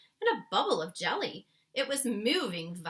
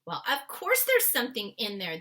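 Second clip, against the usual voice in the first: matter-of-fact giant; 3 semitones higher, 6 dB louder than usual. Acted. The BFG answers Sophie, lightly voiced and matter-of-fact. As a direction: shrug it off as obvious. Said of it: "the B F G said".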